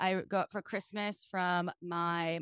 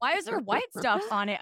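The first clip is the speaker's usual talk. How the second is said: put-on kid voice; 3 semitones higher than usual. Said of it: "Is this your kid voice?".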